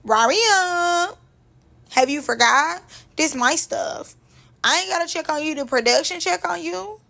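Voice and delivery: Ferrari. Retold or imitated. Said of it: "And she said".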